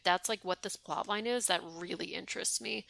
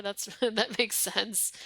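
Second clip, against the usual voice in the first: laughing through words; 2 semitones higher, 5 dB louder, much slower than usual. Real, not acted. Laughs at game logic.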